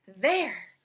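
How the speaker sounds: pleased with a job done; Amelia Bedelia. Acted. Maid finishing towels, satisfied. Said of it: "said Amelia Bedelia".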